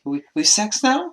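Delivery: slow, high mock Russian accent; fake Russian accent. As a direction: put on a weird, drawn-out Russian accent. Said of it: "that weird fake Russian accent".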